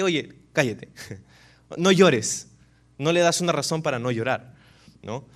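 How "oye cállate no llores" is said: dismissive hushing. Retold or imitated. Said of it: "no le puedes decir solamente".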